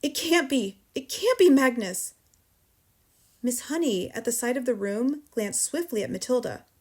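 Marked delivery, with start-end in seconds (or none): 0.0-2.1 raised, loud disbelief; shocked cry. A narrator's reading. Shaken headmistress sees a name, crying out. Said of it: "she cried".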